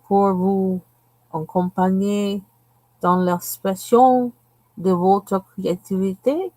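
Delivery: confident mock French reading; faking fluent French off the tin; fake French accent. Shown as a demonstration. Reading the French directions with a put-on French flair. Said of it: "will you hear me fake that".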